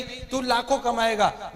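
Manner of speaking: slow, drawn-out recruiter promise; slow upline promise. Retold or imitated. Friend slowly repeating the upline's promise of lakhs. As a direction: stretch लाखों out like a salesman. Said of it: "upline करती है कि नहीं?".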